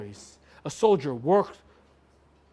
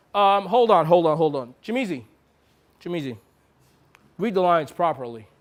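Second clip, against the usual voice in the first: firm interruption; 4 dB louder than usual. Real, not acted. Director interrupting.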